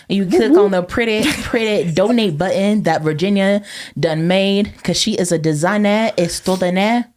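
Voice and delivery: attempted French accent on the sales pitch; half-successful mock French accent; shaky French accent. Plugging the donate button, attempted French accent. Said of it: "I don't know what the French accent is".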